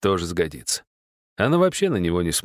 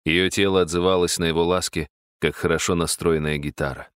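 plain reading voice

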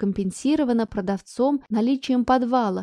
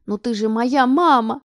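loud plea; 6 dB louder than usual. Acted. Daughter pleading.

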